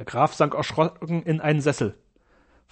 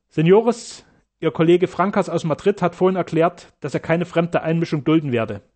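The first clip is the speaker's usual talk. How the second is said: firm, raised doctor's address; Sternau's voice. Acted. Sternau firmly addresses the Spanish doctors, raised voice.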